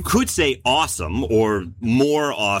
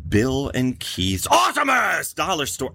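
monster truck announcer. Acted. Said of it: "I can't stop saying it like that".

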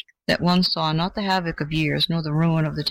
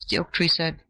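ordinary delivery

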